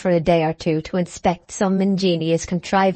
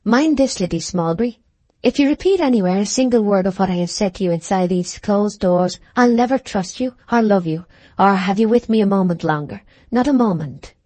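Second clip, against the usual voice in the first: mild stern warning. Acted. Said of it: "She freshened and turned to Liddy suddenly".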